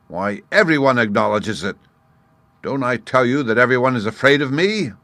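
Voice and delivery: loud, high lion voice; a proud, booming lion. A narrator's reading. Lion insisting everyone fears him, loud.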